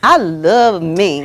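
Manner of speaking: LOVE drawn out slowly with feeling; slow, passionate self-affirmation. Shown as a demonstration. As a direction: savor the word love, stretching it. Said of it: "say it with passion".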